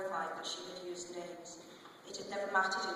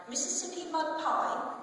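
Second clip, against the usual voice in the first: much higher, sing-song offer of dessert; bright hostess call; 10 semitones higher, 4 dB louder than usual. Acted. Samantha offering pie to her guests, cheerful call.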